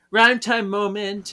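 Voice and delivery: high, slow, drawn-out fanfare; mock-grand rhyme time; excited announcement. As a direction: announce it like a game show. Announcing the spell moment.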